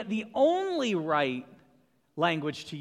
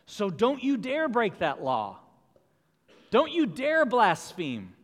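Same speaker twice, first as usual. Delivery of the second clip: stern warning; 4 semitones higher, 5 dB louder than usual. Acted. Preacher voicing the law's warning.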